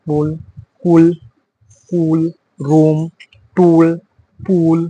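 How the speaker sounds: "কুল, রুম, টুল, পুল" each with an oo vowel; double o as oo. Shown as a demonstration. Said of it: "double ও যদি থাকে তাহলে উসুরের মতো উচ্চারণ হবে".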